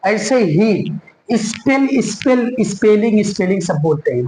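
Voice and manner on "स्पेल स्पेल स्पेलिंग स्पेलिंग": स्पेल with a clear light L and a leading "i"; wrong pronunciation. Shown as a demonstration. Teacher mimics what people say wrongly, clear-L mispronunciation. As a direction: say स्पेल and स्पेलिंग with the L fully sounded. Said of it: "गलत है".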